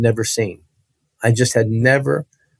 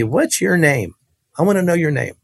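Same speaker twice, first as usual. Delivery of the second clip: higher-pitched, insistent questioning; imitated woman preacher; 5 semitones higher than usual. Preacher asking a sick boy his name, pitched up and insistent. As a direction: voice her demand a little higher. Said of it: "she said to me".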